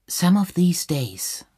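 a hint of a wild singer; singer belting. A narrator's reading. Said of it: "sang die Sängerin".

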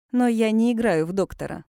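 слово «играю» выделено голосом; нажать на «играю», подмигивая; ударение на «играю». A narrator's reading. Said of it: "Сделав ударение на слове «играю»". («играю» с нажимом и игривой интонацией)

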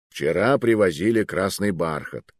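a hint of secrecy, meaningful; mysterious. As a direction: say it like a coded hint. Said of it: "с загадочным выражением лица".

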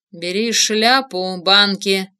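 hoarse laugh. Acted. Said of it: "с хриплым смехом произнёс Уилл".

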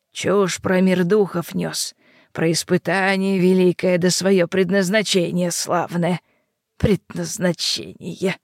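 put-on slow, scornful old witch; mock his destiny, crone-like; old hag. Yaga mocks the wolf.

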